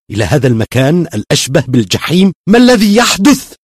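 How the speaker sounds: rising fury at being trapped; young man raging at the maze; angry outburst. A narrator's reading. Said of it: "وصاح بغضب".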